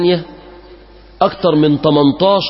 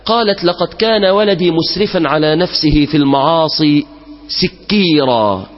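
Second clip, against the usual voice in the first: slow, measured classical Arabic storytelling; solemn story narration. A narrator's reading. Preacher telling worshippers an old tale, slow and solemn. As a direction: draw the congregation into the tale.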